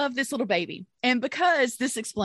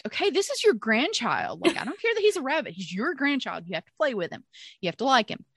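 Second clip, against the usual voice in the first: emphatic retold scolding of parents; insistent; 3 semitones higher than usual. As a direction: lay down the law, pitch jumping on the protest.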